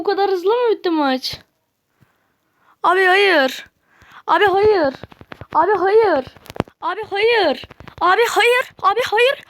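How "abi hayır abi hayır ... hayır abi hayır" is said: from a flat repeated no building to a higher, whinier wail; despairing nos. Real, not acted. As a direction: keep saying no, climbing higher each time. Match lost, repeats no in despair. (tekrar eden çaresiz hayır, giderek tizleşen)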